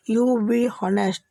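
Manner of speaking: very slow, each word clearly separated; slow teaching demo. Shown as a demonstration. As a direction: model it slowly for learners. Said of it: "English में क्या बोलना होगा". (धीमे और साफ़ बोलें)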